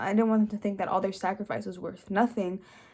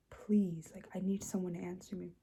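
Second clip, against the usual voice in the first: whispering; 10 dB quieter than usual. Retold or imitated. Begging family to answer the phone.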